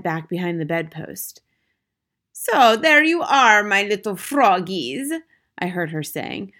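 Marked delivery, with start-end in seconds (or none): 2.3-5.1 loud, high, slow villainess voice; big theatrical witch; gloating witch. A narrator's reading. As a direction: relish cornering the little prey, drawn out and loud. Witch gloats over trapped frogs.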